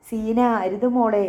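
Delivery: slow, loud desperate plea to stop; anguished cry. Acted. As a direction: call out to stop her, drawn out. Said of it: "കുഞ്ഞാപ്പൂവിൻ്റെ നിലവിളി". (നീട്ടിയുള്ള ഉറക്കെ നിലവിളി)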